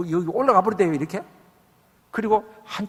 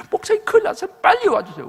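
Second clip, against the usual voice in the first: much higher and louder, urgent panic; panicked crying call; 12 semitones higher, 7 dB louder than usual. Retold or imitated. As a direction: cry out for help as if in tears. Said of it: "막 울면서 난리".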